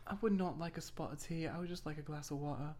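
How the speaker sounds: mock-British polite refusal; British accent. Turning down tea in the bit, playful British accent. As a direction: keep up the put-on British accent. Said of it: "I can do a good British accent".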